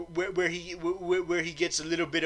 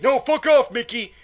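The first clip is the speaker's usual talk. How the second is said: loud, higher-pitched snap; acted angry refusal; 6 semitones higher, 6 dB louder than usual. James Bond rejecting the mouse's pitch, acted angry refusal. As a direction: tell him off in mock anger. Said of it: "James Bond is like".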